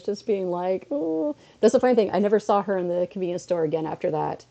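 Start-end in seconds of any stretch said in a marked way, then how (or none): 0.9-1.4 high, short imitation sob; hammed-up tearful "oh"; mock crying wail. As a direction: imitate crying to customer service. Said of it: "I'm crying to customer service".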